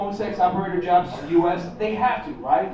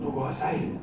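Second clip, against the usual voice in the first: scared whisper; 7 semitones lower, 7 dB quieter than usual. Retold or imitated. Frightened dad whispering warning.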